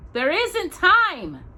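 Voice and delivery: high, slow tense refusal; no time to argue; urgent. A narrator's reading. Pa refuses to wait for help, high and slow.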